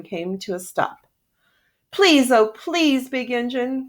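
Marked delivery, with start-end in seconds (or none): 1.9-3.9 pleading toys. Acted. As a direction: beg with everything. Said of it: "cried all the dolls and toys".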